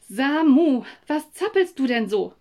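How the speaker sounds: lauter, gereizter Tadel; barsch. Acted. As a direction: die Mutter fährt Samu genervt an. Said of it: "sagte meine Mutter barsch". (barsche Mutter, lauter und höher)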